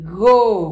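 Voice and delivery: GORILA broken into "go", "ri", "la" with gaps; syllable by syllable. Shown as a demonstration. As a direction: sound out gorila one syllable at a time. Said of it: "qué sílaba falta".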